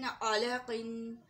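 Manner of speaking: अलकिन drawn out very slowly with a clear final किन; teacher recites अलकिन as a model word; slow demo word. Shown as a demonstration. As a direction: stretch अलकिन out, nasal नून at the end. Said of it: "अलकिन को कैसे पढ़ेंगे".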